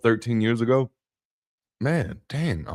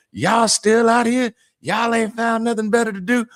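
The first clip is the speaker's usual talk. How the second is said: heckling lady; 12 semitones higher than usual. Retold or imitated. Lady drives back past the men still outside, mock heckling. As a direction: call out as the nosy lady, pitched way up.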